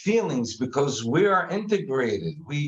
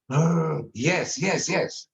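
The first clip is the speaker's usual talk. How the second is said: mock frustrated groan; 3 semitones higher, much slower than usual. Shown as a demonstration. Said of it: "Just, just make a face".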